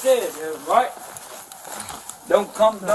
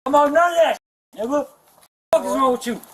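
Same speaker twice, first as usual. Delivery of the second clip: angry yelling, pitch raised; shouting match; 4 semitones higher, faster than usual. Real, not acted. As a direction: yell at him in a real fury. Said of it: "Quit yelling at each other".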